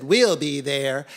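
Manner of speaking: loud, drawn-out confident promise; eager cats sealing a deal; keen agreement. A narrator's reading. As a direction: agree heartily, stretching the words. Cats eagerly agree first time.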